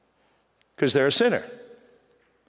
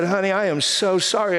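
a light touch of earnest apology to his wife; mean the apology, gently; sincere apology; 3 semitones higher than usual. Retold or imitated. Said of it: "And I was very sincere".

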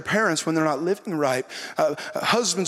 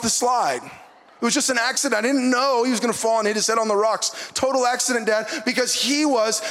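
put-on kids' excuse voice; 5 semitones higher than usual. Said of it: "how they always frame the story".

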